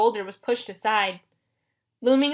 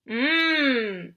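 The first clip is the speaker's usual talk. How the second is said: long, drawn-out monster "mmm"; savoring monster hum; 3 semitones higher than usual. A narrator's reading. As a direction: hum hungrily, long and falling. Cyclops savoring Grover's smell.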